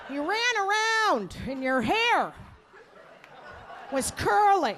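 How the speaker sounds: high, halting mock mother voice; forgetful mother. Mother repeating scant childhood memories, high halting imitation. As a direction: piece the memory together with long pauses. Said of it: "This is what she said".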